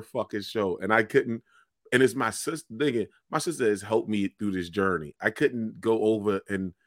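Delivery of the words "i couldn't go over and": ordinary delivery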